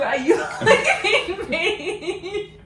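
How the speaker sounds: slow, loud mock whimper, laughing; mimicking husband's panic. Wife mocking husband's panicked question, slow and laughing. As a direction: drag it out in a silly put-on voice. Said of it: "you jumped straight to".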